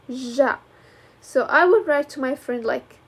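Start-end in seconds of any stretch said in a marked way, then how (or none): 0.1-0.6 ج as a clear, isolated "zha"; sound demonstration. Shown as a demonstration. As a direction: say ج slowly as "zha". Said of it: "This sound is".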